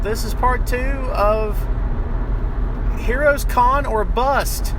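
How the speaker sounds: slow, drawn-out, announcing the title; dramatic slow title. Shown as a demonstration. Host naming the episode title, slow dramatic reading. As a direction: read it like a movie trailer. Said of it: "we didn't get a title".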